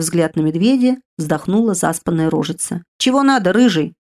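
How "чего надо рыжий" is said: high, loud, yawning little creature; yawning spirit. Acted. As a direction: ask lazily through a yawn. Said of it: "сладко зевнув, спросил элементаль". (высоко, громко, с зевком)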